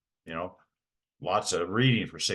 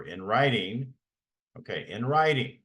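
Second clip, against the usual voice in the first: "in writing" pressed home, rising in pitch on the repeat; insistent emphasis; 3 semitones higher than usual. Real, not acted. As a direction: hammer "in writing" as the key point. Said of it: "I can't emphasize".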